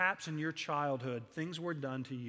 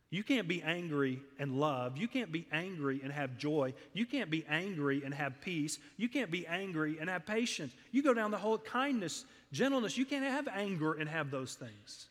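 preacher swelling to a peak; rising preaching fervour; 3 semitones higher than usual. Real, not acted. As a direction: climb into a ringing crescendo of virtues. Preacher building a list to climax.

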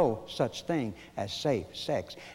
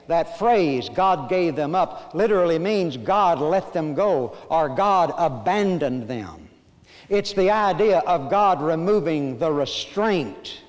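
loud, ringing scripture proclamation; forceful preaching; 2 semitones higher, 6 dB louder than usual. Real, not acted. Preacher hammers home a repeated verse to his congregation, loud and emphatic. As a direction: preach it out, drawing out the repeated phrase.

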